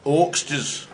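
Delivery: "Oxters" rolled with a Scottish lilt, "Aye" drawn out slowly; Scottish accent. Shown as a demonstration. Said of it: "say it in a Scottish accent".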